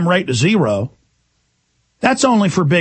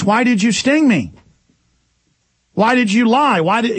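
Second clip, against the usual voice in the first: higher-pitched, aggrieved frog; reproachful frog; 5 semitones higher than usual. Acted. Stung frog questioning the scorpion, reproachful. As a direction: demand an answer as the betrayed frog.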